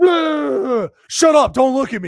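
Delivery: very high, very slow, queasy, disgusted grumbling groan. Acting out a guy in a bar who is sick of throwing up: imitating a sick man trying to act composed. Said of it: "he's so sick of throwing up".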